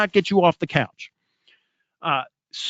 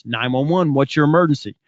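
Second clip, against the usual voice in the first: calm operator; 3 semitones lower than usual. Retold or imitated. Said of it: "act like the nine one one operator".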